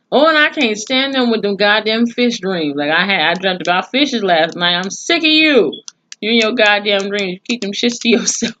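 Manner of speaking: fed-up rant, voice jumping up high; exasperated rant. Real, not acted.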